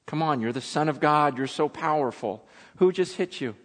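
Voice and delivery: understated taunt of a helpless man; mocking. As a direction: needle him with mock questions. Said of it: "and mock him and go".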